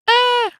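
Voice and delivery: imitated falsetto "ah", held piercingly high; mock a super-high yelp, falsetto-band style; super high-pitched squeal. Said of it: "Like, super high pitched".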